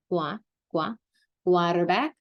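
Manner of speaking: "Qua, qua" drilled alone, then "quarterback" as "kwar-er-back"; Puerto Rican pronunciation. Shown as a demonstration. Teacher drilling how they pronounce it, "qua, qua, quarterback" Spanish-style. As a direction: break out "qua" first, then say "quarterback" whole. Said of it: "They're gonna pronounce it like that".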